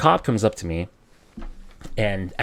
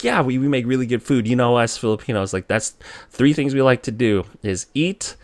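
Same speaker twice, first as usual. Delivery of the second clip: raised, chummy enthusiasm; amping him up; 4 semitones higher, 4 dB louder than usual. Retold or imitated. Driver flatters food-loving cop to dodge ticket, eager. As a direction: play along to get the listener amped up. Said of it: "I'm just getting him amped up".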